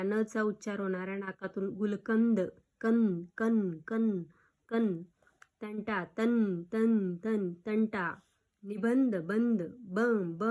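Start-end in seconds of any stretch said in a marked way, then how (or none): 1.7-8.2 drawn-out nasal n in कन and तन; नाकातून उच्चार. Shown as a demonstration. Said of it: "नाकातून उच्चार होणारा". 8.6-10.4 nasal sound stressed in निबंध and बंद; नाकातून उच्चार. Shown as a demonstration. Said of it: "नाकातून उच्चार होतो".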